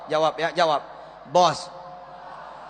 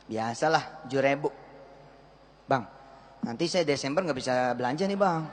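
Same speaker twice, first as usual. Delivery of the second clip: mock housewife; 7 semitones lower, 4 dB quieter, faster than usual. Housewife buying fish.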